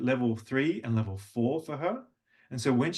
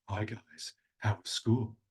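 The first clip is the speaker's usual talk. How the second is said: low flat greeting; 2 semitones lower, 6 dB quieter, slower than usual. Shown as a demonstration. Father greeting his sons, low and much softer. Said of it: "I don't say".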